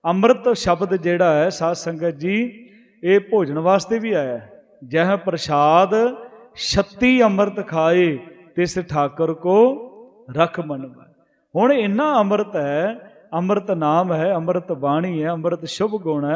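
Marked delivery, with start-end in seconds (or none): 4.9-11.1 slow scripture recitation. Acted. Preacher reciting gurbani verse to the congregation, slow and reverent. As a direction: chant the verse slowly, each phrase drawn out.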